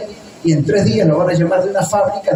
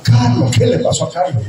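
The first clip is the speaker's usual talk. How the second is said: worried; 5 semitones higher than usual. Retold or imitated. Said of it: "estaba toda preocupada".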